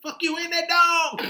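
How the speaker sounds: high, laughing mock voice; voicing the guy. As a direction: say it cracking up. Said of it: "He said".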